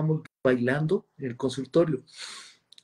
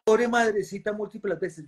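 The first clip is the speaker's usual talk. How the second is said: laughing through the line, pitch higher; 7 semitones higher than usual. Real, not acted. Laughing as he tells the audience about the insults. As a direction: chuckle while admitting it.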